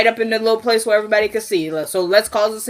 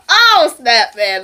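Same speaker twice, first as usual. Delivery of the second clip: excited outburst; 3 semitones higher, 6 dB louder, much slower than usual. Real, not acted. Laughing at herself mid-story.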